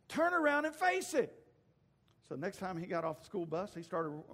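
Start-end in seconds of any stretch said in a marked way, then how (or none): 0.1-1.3 high, loud motherly order; commanding mama. Acted. Mama orders her son to confront the chihuahua, hollering. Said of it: "then his mama told him".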